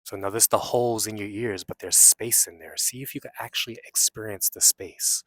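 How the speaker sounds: unhurried meditation guide with long pauses; guided meditation. Real, not acted. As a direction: guide them inward, leaving long silences between phrases.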